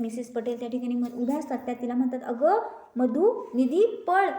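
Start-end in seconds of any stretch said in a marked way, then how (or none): 2.2-4.3 calling out loudly. Acted. Calling the girl to run.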